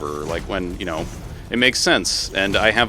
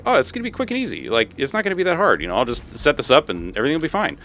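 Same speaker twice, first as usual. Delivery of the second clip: mock naive optimism; 3 semitones higher than usual. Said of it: "that I'm like".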